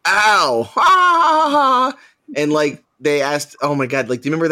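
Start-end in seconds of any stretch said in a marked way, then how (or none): 0.1-2.0 high mocking ow then laughing ha ha; high, louder fake laughter; mock pained laughter. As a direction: kids jeering at the whack. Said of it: "everyone's like".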